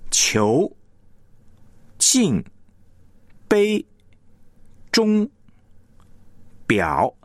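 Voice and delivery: 球, 镜, 杯, 钟, 表 each isolated and given full weight; stressed key syllable alone. Shown as a demonstration. Teacher isolates the syllable to emphasise, full stress. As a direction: say 球, 镜, 杯, 钟, 表 singly, each fully stressed. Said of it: "我要强调的这个词汇".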